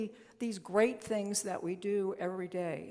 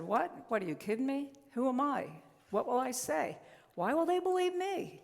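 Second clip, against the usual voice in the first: mock disbelief, rising higher; incredulous Moses; 5 semitones higher than usual. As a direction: protest in rising, doubting questions. Moses doubting God's call, acted quote.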